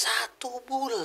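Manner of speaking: drawn-out, whispery disbelief; amazed echo. Real, not acted. Host hears of satu bulan unconscious, hushed astonishment.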